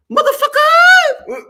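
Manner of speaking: slow, very high shouted curse. Acted. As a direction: let the curse ring out high and long. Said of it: "I don't mind saying".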